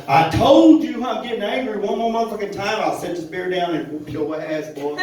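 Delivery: hammed-up threat to the boy; mock angry mama.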